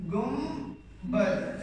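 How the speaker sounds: गुम बद with a clear m, not n; said with m sound. Shown as a demonstration. Teacher shows students how to read it, with m. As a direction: say गुम बद, nasal m before the b. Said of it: "ऐसे पढ़ते हैं ना मीम के साथ".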